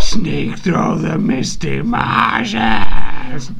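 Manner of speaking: high, slow creepy Gollum voice. Acted. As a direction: hiss it like Gollum. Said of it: "Gollum says".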